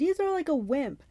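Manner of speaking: high, drawn-out jeering; mocking high-pitched holler; taunting. A narrator's reading. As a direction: jeer at the monster, stretching it. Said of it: "Clarice taunted".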